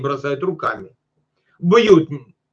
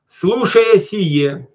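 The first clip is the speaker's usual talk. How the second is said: slow reading; 3 semitones higher, much slower than usual. Shown as a demonstration. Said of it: "preacher slows scripture".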